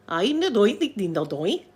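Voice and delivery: mimicking a baffling northern Scottish accent; lightly sung, garbled northern Scottish speech; mock northern Scottish accent. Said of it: "Edinburgh accent, I've got a kinda hard time".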